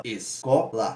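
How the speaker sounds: "Escola" split into es, co, la; syllable by syllable. Shown as a demonstration. Teacher splitting a word for students, syllable by syllable. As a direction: break "Escola" into separate syllables. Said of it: "é uma sílaba".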